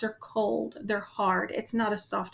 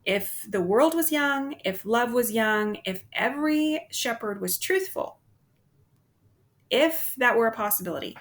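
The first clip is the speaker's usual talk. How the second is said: nymph's hypothetical; 2 semitones higher than usual. Retold or imitated. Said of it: "about the nymph's answer, saying".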